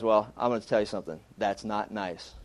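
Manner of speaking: a hint of a looming lineman; big lineman warning. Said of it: "He goes".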